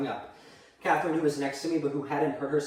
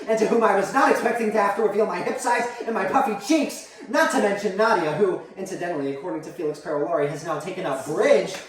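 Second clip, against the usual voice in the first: mildly raised, put-upon lecture; mother's haughty tirade. Acted. Mother to child about the wedding ordeal, haughty tirade. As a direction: pile up grievances with lofty indignation.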